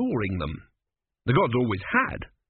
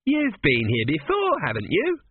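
accusing; 7 semitones higher than usual. A narrator's reading. The Sphinx suspects Tepic knows the riddle, accusingly. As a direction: draw out the charge, then press the question. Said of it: "it said accusingly".

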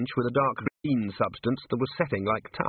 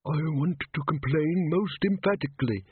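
high-pitched talking dust, put out; tiny shrill creature making a complaint; shrill little voice; 5 semitones higher than usual. Acted. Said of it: "in a shrill little voice".

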